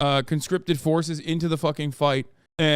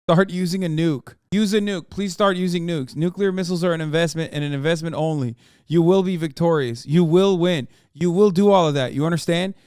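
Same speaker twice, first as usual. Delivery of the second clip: mock insistent pitch. Mock urging Russia to use nukes.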